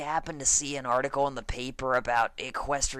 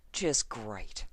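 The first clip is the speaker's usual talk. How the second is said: lower, softer, defeated; deflated mutter; 4 semitones lower, 5 dB quieter than usual. Acted. Farmer realizing the damage, soft defeated mutter. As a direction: let the words sink. Applejack sinking dismay.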